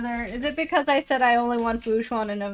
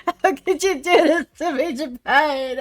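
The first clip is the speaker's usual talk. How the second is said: loud, higher hammed-up wail of betrayal; mock betrayal; 5 semitones higher, 8 dB louder than usual. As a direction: overplay the heartbreak at the character.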